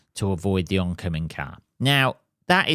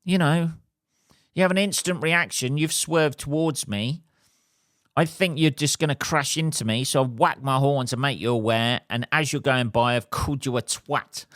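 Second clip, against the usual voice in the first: heated justification; 4 semitones higher than usual. Retold or imitated. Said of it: "I was like".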